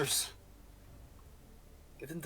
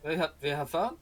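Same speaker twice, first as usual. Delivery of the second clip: put-on German accent; 2 semitones higher than usual. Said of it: "I gone German".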